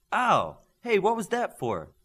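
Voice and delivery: loud, high startled ow; pinched and protesting loudly; yelp of pain. Acted. Pinched on the arm.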